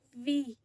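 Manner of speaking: "vi" said with lips only approaching; v sound demo. Shown as a demonstration. Student demonstrating v in vivir. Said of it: "suena así".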